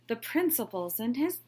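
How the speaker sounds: loud, high call; child calling out. A narrator's reading. Kindergarten child calling out at the assembly, loud. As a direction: blurt it out to the whole room. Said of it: "called out".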